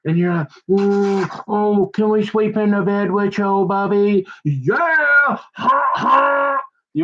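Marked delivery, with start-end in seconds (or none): 0.7-4.3 cooing women. Retold or imitated. Women flirting with golfer. 4.4-6.6 high, shouted laughing yes; gleeful laugh. Retold or imitated. Golfer laughing back at the flirting women, high and shouted.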